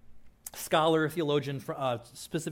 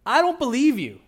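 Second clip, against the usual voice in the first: higher, louder, incredulous Peter; doubting Peter; 8 semitones higher, 8 dB louder than usual. Retold or imitated. Peter shouting doubt at Jesus over the storm. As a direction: blurt out disbelief at a ghost. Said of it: "what does he say?".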